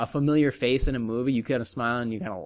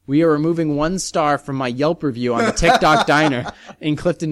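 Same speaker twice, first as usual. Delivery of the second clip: louder, mock formal read; reading Seinfeld's review; 5 dB louder than usual. Host reading Seinfeld's Yelp review aloud, mock formal. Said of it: "sent out a recent review".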